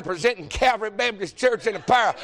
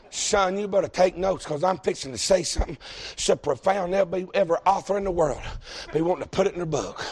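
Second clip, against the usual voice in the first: mock solemn buildup; 3 semitones lower than usual. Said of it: "Y'all ready for such deep?".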